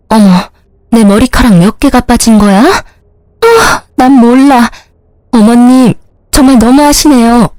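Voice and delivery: acting fragile to win sympathy; coy mistress. Mistress plays hurt and coy. (애교 부리며 엄살떠는 상간녀)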